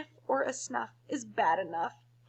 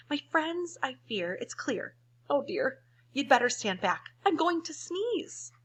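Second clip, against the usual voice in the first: lightly voiced worried elephant; 6 semitones higher than usual. Elephant's warning, read in voice.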